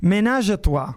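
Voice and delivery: sensual French crooner voice; sultry narrator. Pretend. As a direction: purr it like a cheesy singer-songwriter. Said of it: "leggerò con la voce sensuale di un cantautore".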